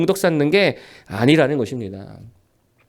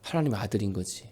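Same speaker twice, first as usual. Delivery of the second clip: inner thought; 8 semitones lower, 6 dB quieter than usual. Retold or imitated. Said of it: "제가 속으로 생각했습니다".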